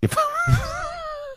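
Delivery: high squealing laugh; shrieking laugh. Real, not acted. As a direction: burst out in a shrill laugh. Reacting to the tiramisu remark. (quietschendes Lachen)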